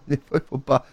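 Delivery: laughing. Real, not acted. Laughs at the mishap.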